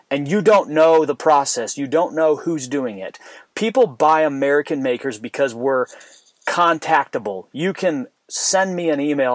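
fired-up rant with forceful, loud stresses; really worked up. Real, not acted. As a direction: argue it hard, punching key words. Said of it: "I'm fired up on that one".

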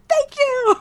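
high, bright thank you; imitating delighted gratitude; gushing thanks. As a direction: thank her as if overjoyed. Quoting his excited thanks.

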